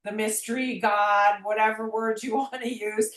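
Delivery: emphatic mock yelling, pitch climbing toward the end; retold screaming at God. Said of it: "I was screaming".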